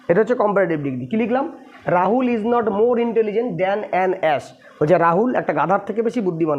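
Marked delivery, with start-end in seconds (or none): 1.9-4.4 very slow, word by word dictation. Shown as a demonstration. Teacher dictating the English sentence to students, very slow. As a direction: spell it out slowly for students to copy down. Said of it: "teacher reads English sentence aloud".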